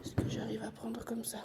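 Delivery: whispering. Real, not acted. Whispering near sleeping baby.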